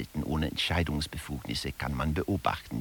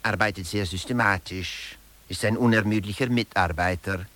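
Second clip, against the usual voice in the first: louder, higher, like an official reading out an assessment; reading a staff report; 4 semitones higher, 6 dB louder than usual. Acted. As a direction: read it like a boss's glowing evaluation. Quoted staff evaluation read out. (laut vorgelesene Personalbeurteilung)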